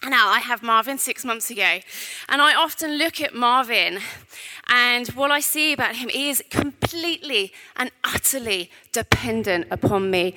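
echoey voice in a large hall; mic echoing round the room; big hall echo. Real, not acted. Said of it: "I'm echoing".

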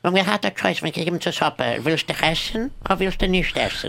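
a lightly voiced Russian accent; Russian host offering soup; Russian character voice. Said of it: "impersonates a Russian".

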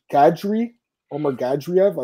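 "Gadri" with an R after the d; announcer's R pronunciation. Retold or imitated. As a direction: say "Gadriev" with a clear R. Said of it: "John Ant called him".

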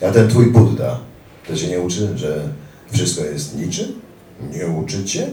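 lightly voiced mocking militant; mocking jeer. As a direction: taunt his Buddhism. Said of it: "zaśmiał się ten trzeci".

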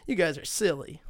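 hammed-up, playful telling-off; laughing mock protest. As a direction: feign a chuckling objection, amused by it all. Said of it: "laughing, but he's like".

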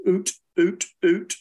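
short oot calls; oot sounds. Shown as a demonstration. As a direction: say oot like into a duck call. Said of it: "what I say into a call is I say".

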